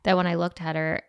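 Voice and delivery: normal talking voice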